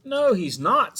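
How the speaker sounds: high, loud mock scream; boy screams a warning to mom. A narrator's reading. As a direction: scream it in a panic. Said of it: "screamed Eddie".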